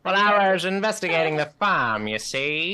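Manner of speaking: high, loud hammy sleuth narration; detective voice. Pretend. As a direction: play a pompous detective investigating. Sound like a detective.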